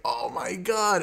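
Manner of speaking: high-pitched mock amazement; imitated awed crowd. Fan retelling everyone's reaction to seeing Andrew, high-pitched awe. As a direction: swoop up high like a starstruck fan.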